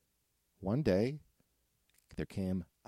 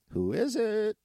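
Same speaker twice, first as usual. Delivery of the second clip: squeaky piggy voice; 14 semitones higher than usual. Acted. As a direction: squeal it like a startled piglet. Second piggy answers.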